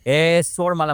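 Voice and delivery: loud retold cry of a possessed woman; imitated possessed yell. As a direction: mimic a terrifying yell, half-strength. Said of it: "एकदम भयान आरोळी दिली".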